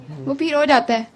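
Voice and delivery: usual speaking voice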